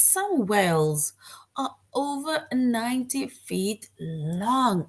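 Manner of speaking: awed. Shown as a demonstration. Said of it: "you are in awe".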